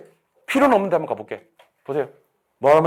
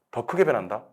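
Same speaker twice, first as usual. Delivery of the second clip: usual speaking voice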